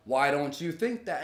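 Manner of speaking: laid-back, keeping it rational; chill and relaxed. Retold or imitated. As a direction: re-enact staying calm and reasonable. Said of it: "I was being very chill and relaxed".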